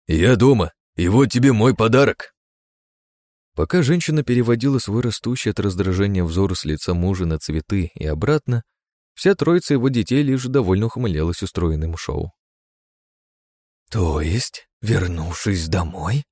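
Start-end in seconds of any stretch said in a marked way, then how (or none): 0.1-2.3 cheerful. Acted. Husband cheerfully presents flowers. 13.9-16.2 slow trembling hiss; hiss, shaking with rage; angry hiss. Acted. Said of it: "Дрожа от гнева, зашипел архидемон".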